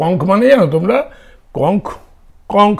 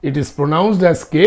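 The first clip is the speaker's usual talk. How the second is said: slow dictation; 4 dB quieter, much slower than usual. Shown as a demonstration. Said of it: "dictating the rule".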